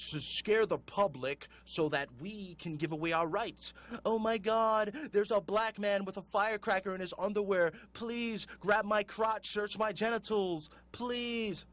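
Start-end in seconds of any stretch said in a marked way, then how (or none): 4.0-11.6 mock panicked traveler. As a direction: ham up a gullible flyer begging to be searched. Mocking a panicked, gullible traveler.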